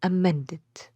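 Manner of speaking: "Amended" with a stressed middle syllable; stress on MEN. Shown as a demonstration. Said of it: "أحط stress وأنا بنطق".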